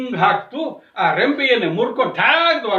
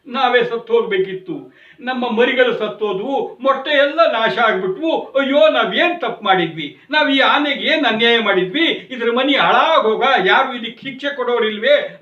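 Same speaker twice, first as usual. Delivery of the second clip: mock wail, a little louder and pressing; acted wailing lament; 3 semitones higher, 4 dB louder than usual. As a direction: lament like a storyteller's grieving sparrow. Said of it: "ಅಂತ ಗೊಳೋ ಅಂತ ಅಳ್ತಿತ್ತು". (ಗೊಳೋ ಎನ್ನುವ ಅಳಲಿನ ನಟನೆ)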